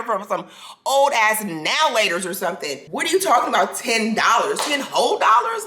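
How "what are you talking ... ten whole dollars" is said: high, shouted disbelief; outraged disbelief. Real, not acted. Telling viewers about the photo price, outraged shout. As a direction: ten whole dollars, shouted in outrage.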